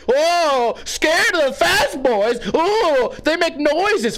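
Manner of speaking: high, drawn-out sarcastic ooohs; mock them as if terribly scared; hammed-up, high-pitched taunting; mocking fake fear. Mocking drivers with pretend fear.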